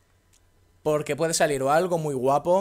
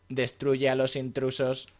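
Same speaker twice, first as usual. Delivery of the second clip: slow, mechanical robot voice; slower than usual. Pretend. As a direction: speak it like a robot. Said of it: "con voz de robot".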